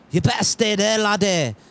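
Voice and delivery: an attempted Scottish accent. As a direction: put on an amateur Scottish accent. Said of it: "start with the Scottish accent".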